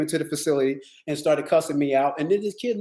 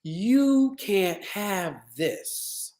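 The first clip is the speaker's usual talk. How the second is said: slow firm refusal; much slower than usual. Shown as a demonstration. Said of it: "I mean that from the bottom of my heart".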